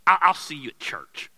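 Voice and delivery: loud, sarcastic grumbling apology; sarcastic husband. Retold or imitated. Husband answering his wife's scolding, loud and sarcastic. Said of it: "all you can be is like".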